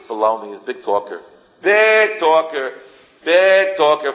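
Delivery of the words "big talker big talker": slow, louder sneer; scoffing, a touch louder; mocking. Real, not acted. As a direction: drag it out to ridicule him. Mocking a hypocrite.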